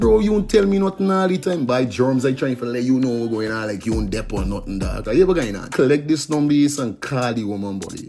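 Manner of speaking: playful radio skit between two friends. Acted. Host acting a friend pitching skincare, lightly played. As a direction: act out a street chat selling a product.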